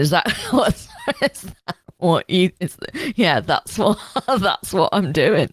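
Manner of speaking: sarcastic yes, with laughter; laughing sarcastic admission. Retold or imitated. Arminius sarcastically admitting his plan to Varus, laughing. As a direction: laugh through a mock confession.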